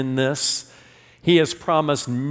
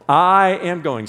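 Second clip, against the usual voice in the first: I am going; 6 dB louder, slower than usual. Shown as a demonstration. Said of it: "Say that with me".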